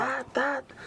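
high, short "ta" bursts; high-pitched gunfire noise; imitated gunshots. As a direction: voice the shots ringing out.

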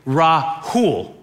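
Rahul in two careful parts, H sounded; careful repeat. Retold or imitated. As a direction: spell out "Rahul" by ear, ra, then HOOL. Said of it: "Let me try this again".

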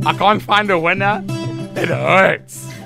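ordinary talk

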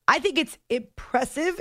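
hiccuping mid-sentence; a hiccup breaks the line. Real, not acted. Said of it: "I don't know why I just hiccuped".

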